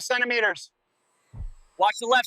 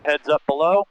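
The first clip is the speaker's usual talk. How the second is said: calling out; 5 semitones lower than usual. Real, not acted. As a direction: call it out across the site. Warning workers below on site.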